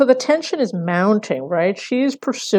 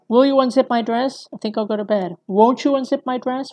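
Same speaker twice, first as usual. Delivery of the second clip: higher-pitched, pressing repeated request; insistent; 5 semitones higher than usual. Retold or imitated. Lecturer demonstrates Missus Robinson's repeated demands, insistent. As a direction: push the request, voice raised in pitch. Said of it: "This idea of repetition and insistence".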